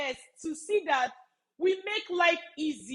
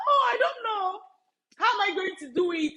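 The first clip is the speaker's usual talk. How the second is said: mock despair; 5 semitones higher than usual. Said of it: "just feel like".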